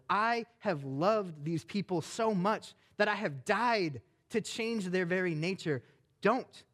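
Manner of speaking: angry God. Acted. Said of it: "gets mad".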